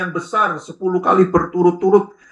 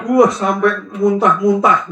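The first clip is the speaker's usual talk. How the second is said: excited exaggeration; 4 semitones higher, 4 dB louder, slower than usual. Shown as a demonstration. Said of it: "Kalau namanya limpah itu apa".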